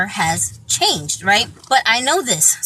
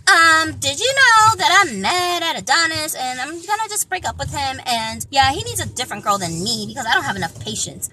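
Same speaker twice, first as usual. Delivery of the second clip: imitating the girlfriend; 2 semitones higher than usual. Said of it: "she'll text me and be like".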